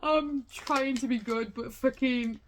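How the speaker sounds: loud, slow exasperated groan. Real, not acted. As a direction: vent your frustration out loud. Exasperated rant about a live stream.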